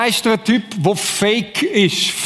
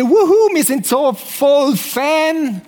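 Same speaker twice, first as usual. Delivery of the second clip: mock cheering; 8 semitones higher, much slower than usual. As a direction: imitate the crowd's over-the-top hype. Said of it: "alle irgendwie". (spöttisch nachgemachter Jubel, hoch und laut)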